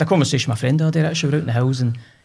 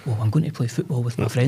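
careful, more measured retold reply; corrected, proper speech. Chastened boy rephrasing for his mum, carefully proper. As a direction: say it properly, minding your words for mum. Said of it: "you can't speak like that".

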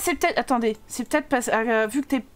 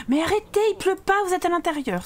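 raised-pitch exasperated telling-off; mock scolding; 5 semitones higher than usual. Parent telling the children off indoors, mock-exasperated scolding.

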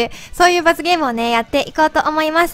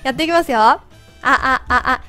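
helium voice; 2 semitones higher than usual. Real, not acted. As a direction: talk after inhaling helium. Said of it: "まだこれ声変わってる？". (ヘリウムガスの声)

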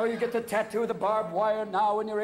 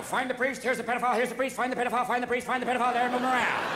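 shell game patter; 5 semitones higher, 4 dB louder, faster than usual. Retold or imitated.

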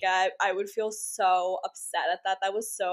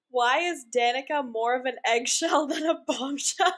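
laughing while reading. Real, not acted. Reading a mocking tweet aloud.

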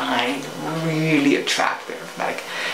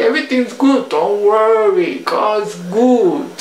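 salesman voice; 5 semitones higher, 3 dB louder, slower than usual. Retold or imitated. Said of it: "He said".

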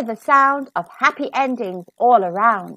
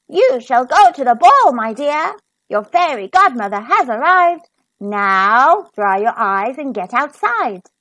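grand, louder fairy voice; fairy godmother; 4 dB louder than usual. Acted. Fairy godmother cheers up crying Cinderella, grand and bright. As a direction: announce the magic with flourish.

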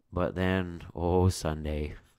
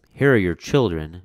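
gloating witch; 8 dB louder than usual. Acted. Witch taunting the mother.

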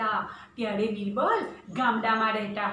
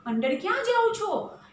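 guard's shout; 8 semitones higher than usual. Acted. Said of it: "ચોકીદાર ફરી બૂમ પાડે છે". (ચોકીદારની ઊંચી બૂમ)

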